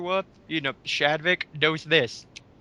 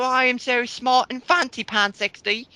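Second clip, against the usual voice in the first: higher, prissy mock of a know-it-all; mock snooty voice; 5 semitones higher, 3 dB louder than usual. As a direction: sneer it out like a self-satisfied smart aleck. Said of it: "It's like".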